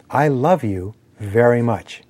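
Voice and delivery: slow, with LOVE leaned on, falling at the end; stress on LOVE. Shown as a demonstration. Speaker showing one way to deliver the sentence, stress on "love". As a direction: lean on "love" and let "very much" settle. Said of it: "different ways that you could deliver those words".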